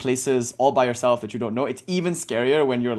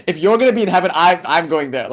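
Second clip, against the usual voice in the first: laughing through the punchline, a little louder; can't hold back the laugh as you deliver the retort; giggling while retelling the comeback; 3 semitones higher, 6 dB louder than usual. Real, not acted.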